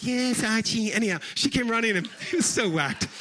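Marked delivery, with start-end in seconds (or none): 0.0-0.9 lightly voiced sitcom wife; a quick imitation of an obedient wife; Edith. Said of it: "it was like".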